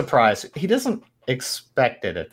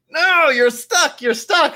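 higher, slower, faux-helpful pleading; a higher, slower put-on reassurance to the trapped mechanic; fake soothing insistence; 13 semitones higher, 3 dB louder than usual. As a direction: pretend to help while holding him down. Pinning him under pretence.

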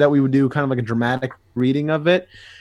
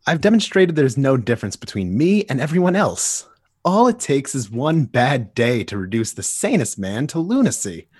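Joker. Acted. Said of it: "J D will be playing Joker".

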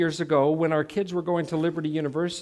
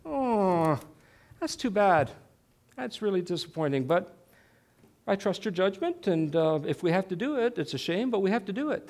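meek, sympathetic wife. Acted. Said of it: "she would say is".

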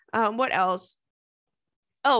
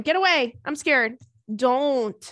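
playful mock panic, louder; mock scared; 2 semitones higher, 4 dB louder, slower than usual. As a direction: shoo the cat in pretend fright. Cat approaching, playful panic.

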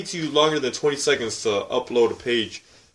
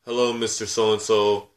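slow polite; 3 semitones lower, slower than usual. Retold or imitated. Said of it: "I couldn't just say".

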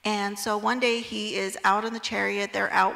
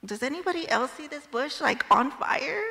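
higher, slowing into disbelief; incredulous Moses; 5 semitones higher than usual. Pretend. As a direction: ask everyone around as if doubting your own eyes. Moses asking passersby about bush.

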